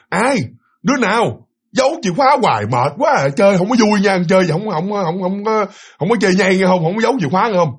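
half-hearted retold yell, fed up with the joke; mock annoyed shouting. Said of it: "Có nghĩa là nó nói lớn lên".

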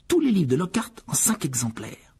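hushed, breathy complaint; whispered aside. Acted. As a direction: mutter it under the breath. George sarcastic aside. (chuchoté)

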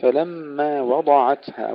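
وضعتها with light واو and heavy ضاد; slow recitation, full dark ضاد in وضعتها. Shown as a demonstration. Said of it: "تفخيم الضاد". (تفخيم الضاد في وضعتها)

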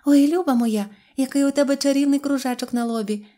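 high, loud gushing admiration; delighted exclamation. A narrator's reading. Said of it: "і вигукнула".

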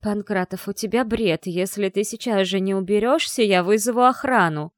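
every word spaced and hit hard; clipped. A narrator's reading. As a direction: spit out each word separately. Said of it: "чеканя каждое слово".

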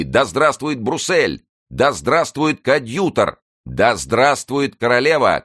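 high, loud, slow chanted cheer; rallying cheer. A narrator's reading. Gandi cheers with the crowd below, loud slow shouts. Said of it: "крикнул Ганди".

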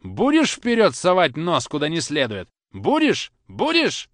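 climbing high, loud threats; father threatening the boy, high and loud; rising threat. Acted. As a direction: press harder on each repeat.

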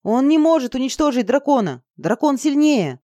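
shouting into her ear, sure of the dragon; excited shouting. A narrator's reading. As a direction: yell it to be heard over the wind. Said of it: "крикнул мне прямо в ухо Саша".

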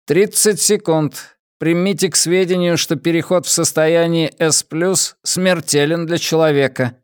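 high, even ship-computer announcement; metallic robot voice. Acted. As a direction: speak like a cold onboard computer. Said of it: "металлический голос". (металлический голос бортового компьютера)

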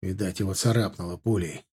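ordinary delivery

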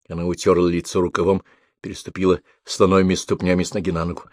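ordinary delivery

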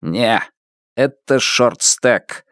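flat, slow machine voice; monotone electronic voice. Acted. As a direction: speak like an emotionless device. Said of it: "монотонно ответил электронный голос".

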